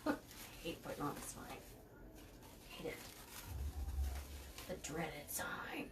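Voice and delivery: low, hushed grumble; muttered dread. Real, not acted. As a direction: half-whisper it under your breath with dread. Grumbles about the hated chore.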